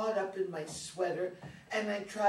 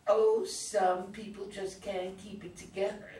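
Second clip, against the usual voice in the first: mocking imitation of a superior classmate, louder; 5 dB louder than usual. Daughter mimicking the girl who laughed at her, oh-so-superior. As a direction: mimic her condescension with a loud, drawn "Oh". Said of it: "laughed in this oh-so-superior way and said".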